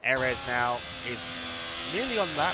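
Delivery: animated sim-racing play-by-play; live race commentary. Real, not acted. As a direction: call the action as it unfolds. Calls live race action.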